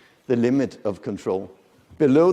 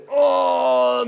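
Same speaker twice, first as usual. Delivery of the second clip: anxious cry; 13 semitones higher, 6 dB louder than usual. Retold or imitated. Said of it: "They'll say".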